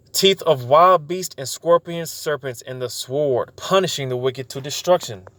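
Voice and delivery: slow, weighty reading of scripture; solemn Bible reading, slowed down. Acted. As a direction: read it out slowly like holy writ. Preacher reads scripture aloud.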